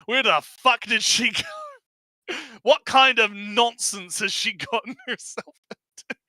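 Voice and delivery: high, loud, frantic outburst while laughing; mock panicked shout. Glena yelling as she finds her student gone, frantic. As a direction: yell in disbelief, half-laughing.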